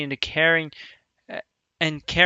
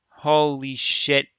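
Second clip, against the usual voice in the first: stunned; much slower than usual. Real, not acted. Shaken reaction.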